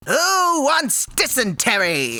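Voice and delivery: a lightly voiced cartoon duck; Darkwing Duck. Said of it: "That's my Darkwing voice".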